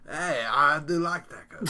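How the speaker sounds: slow, high mock Mexican accent; hammed-up Mexican taco guy. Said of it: "The best Mexican accent".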